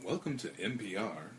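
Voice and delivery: soft, quiet radio announcer; calm hushed public radio voice; public radio host. Pretend. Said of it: "After your best public radio voice".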